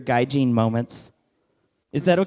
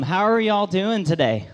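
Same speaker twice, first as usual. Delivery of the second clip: greeting with a Southern Oklahoma twang, saying y'all; Oklahoma Southern accent. Shown as a demonstration. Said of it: "My, uh, Oklahoma Southern accent".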